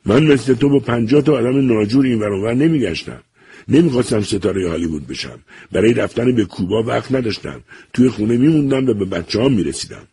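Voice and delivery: put-on old doctor scolding his son, harsh anger; harsh and angry. A narrator's reading. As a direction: tear into him with contempt. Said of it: "سخت و خشمگین شد".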